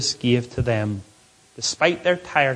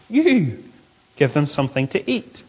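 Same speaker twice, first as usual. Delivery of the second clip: emphatic "You" before an even command; stress on You. Acted. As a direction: lift "You" sharply, then drop to usual pitch. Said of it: "It's stressed".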